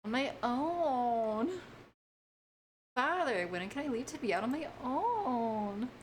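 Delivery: put-on high, slow plaintive boy voice; Pinocchio impression. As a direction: plead like a wooden boy.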